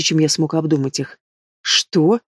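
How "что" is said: gasped what. Acted. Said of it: "ахнула Марлен".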